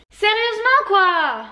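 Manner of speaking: high, slow outraged cry; shocked and grossed out; disgusted disbelief. Real, not acted. Dog brought back a carcass.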